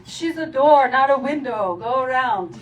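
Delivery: coach yelling. Retold or imitated. Soccer coach yelling at the girl player, loud mock Colombian-accented yell. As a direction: bark it across the field like a soccer coach. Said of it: "kept yelling".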